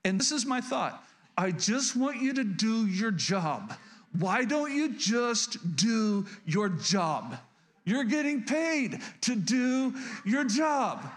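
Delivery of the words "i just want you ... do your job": slow, exasperated inner rant building to a higher shout; boiling mad. Retold or imitated. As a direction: spit out each word slowly, then blow up. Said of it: "I was boiling mad on the inside".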